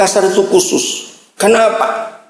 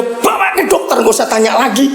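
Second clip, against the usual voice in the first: high-pitched, impatient order without extra volume; mock telling-off, pitch jumping up then falling; retold scolding; 6 semitones higher than usual. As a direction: scold your child into acting at once. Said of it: "Saya langsung bentak dia".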